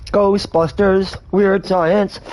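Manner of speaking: chewing gum while talking; words around a wad of gum. Real, not acted. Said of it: "Sorry, I'm chewing some Big League Chew".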